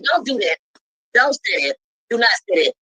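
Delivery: low-pitched, measured warning; retold firm warning. Woman retelling how she said no, firm. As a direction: re-enact laying down a limit, voice dropped.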